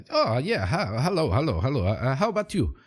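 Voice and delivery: put-on bouncy stab at a Portuguese accent; attempted Portuguese accent. Sidekick greeting his friend, attempted Portuguese accent. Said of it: "I'll try to do a Portuguese accent".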